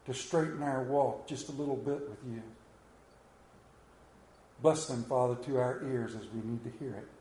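hushed, reverent prayer voice. Acted. Pastor praying over the congregation, hushed and reverent. Opening prayer before sermon.

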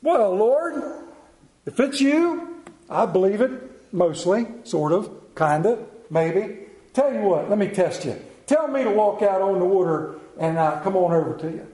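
a hint of a cocky, hedging Peter; lightly voiced boastful fisherman bargaining with the Lord; brash Peter. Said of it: "old Big Mouth fires up".

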